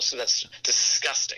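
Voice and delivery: whispered mock disgust. Joking disgust aside.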